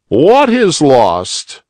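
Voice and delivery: high, slow, gentle questioning; kindly old rabbit. A narrator's reading. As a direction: comfort the little boy. Uncle asks.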